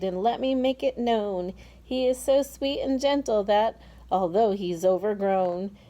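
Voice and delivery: sing-song verse with a lively lilt; rhyming verse recital. Acted. James introducing his friends to the crowd in verse. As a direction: present the creatures like a showman reciting.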